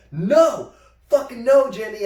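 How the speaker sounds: retold outraged rejection; firm refusal. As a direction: shout him off you.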